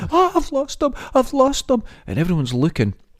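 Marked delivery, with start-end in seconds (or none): 0.1-1.8 mock woman's screaming, much higher. Retelling a woman in court who lost her photos, imitating someone screaming. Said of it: "She started screaming".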